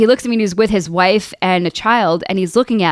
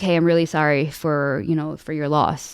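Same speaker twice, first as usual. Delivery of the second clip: lower, softer, gentle imitation; retold condolence; 4 semitones lower, 6 dB quieter than usual. Female drill sergeant consoling a bereaved trainee, gently retold. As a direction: offer condolences gently, low and soft.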